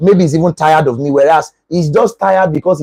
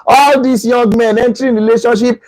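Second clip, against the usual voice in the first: higher mock-bitter muttering curse; jealous grumbling; 5 semitones higher than usual. Jealous girlfriend posting a dig at her boyfriend, bitter. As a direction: sulk and curse him under your breath. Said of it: "the emotional type".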